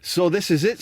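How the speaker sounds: lightly put-on Scouse footballer; Wade Rooney. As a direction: have a go at a Scouse accent. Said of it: "says Wade".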